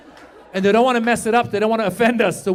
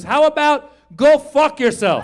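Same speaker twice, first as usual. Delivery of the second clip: mock snap; 7 semitones higher, 8 dB louder than usual. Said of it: "she goes".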